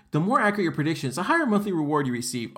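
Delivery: fast, sarcastic recitation of the slogan; mocking reread. Shown as a demonstration. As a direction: rattle off the empty promise with scorn. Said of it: "It just says".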